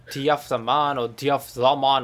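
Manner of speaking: lightly put-on Jamaican accent, broad "ah" in "man"; mock Jamaican accent. Caster recalling a joke with fellow caster, mock Jamaican accent. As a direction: imitate a Jamaican saying "D F the man". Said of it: "we had this thick Mexican accent".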